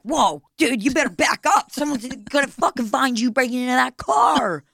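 mock alarm warning a car thief, lightly voiced; talking car alarm.

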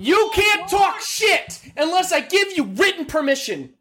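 high-pitched, drawn-out outburst; shouted scolding. Real, not acted. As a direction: lay down the law at full yell. Mock scolding of a co-host.

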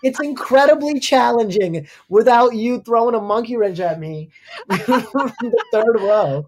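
high, loud comic exasperation; worked-up comic protest, stretching the key words; exasperated rant. Acted. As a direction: plead your case in mock outrage, laughter creeping in. Mock rant at would-be helpful hecklers.

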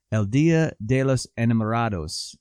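Spanish pronunciation of El Dia de los Enamorados; Spanish accent. Shown as a demonstration. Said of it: "my Spanish accent is on fire".

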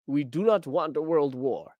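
badly faked French accent; a rough stab at a French accent; terrible French accent. Host reads out Macron's statement in a terrible French accent. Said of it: "that was a terrible French accent".

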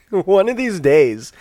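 laughing, slow and high. Real, not acted. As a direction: laugh at your own slip. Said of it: "I'm not gonna confuse runes and ruins".

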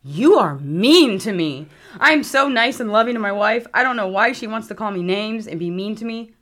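mock hurt husband. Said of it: "he was like".

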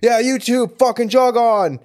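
put-on tough-girl switch. Friend retells woman turning on harassers, hammed-up tough threats. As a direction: snap into a hammed-up London hard case. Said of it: "this really deep".

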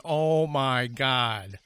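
very slow, stretched-out awe; drawn-out retold amazement; awed oh my God. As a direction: breathe it out in shock. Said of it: "I was just going".

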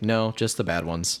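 slow, straight-faced delivery; deadpan. Retold or imitated. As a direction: imitate an actor answering very straight. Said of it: "Just very straight".

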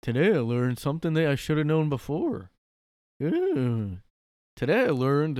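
hammed-up naive announcement, punching the opening; mock dumb poster. Mocking people posting what they learned on Reddit, hammed-up. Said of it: "people are so, like".

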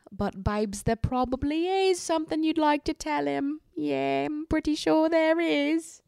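mock teasing voice. Host needling Tanya over her secret, in a high mock teasing voice. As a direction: coax the confession out, all knowing.

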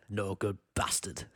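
slow, low mock sneer; a hint of a gruff Yorkshire soldier; seedy Sean Bean. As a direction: drag out the insult, lightly voiced. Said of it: "That's how he says".

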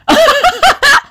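high, loud cackle; burst of laughter. Real, not acted. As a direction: crack up uncontrollably. Cracks up at own typo.

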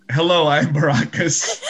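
a hint of a character voice; lightly put-on half-elf wizard; Baracus. Shown as a demonstration. Player introducing his wizard, lightly put-on character voice. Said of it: "here comes Baracus's name ... voice, I mean".

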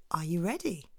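soft whispered question; hushed lead-in to the story. Pretend. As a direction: whisper it like a secret. Teasing before story.

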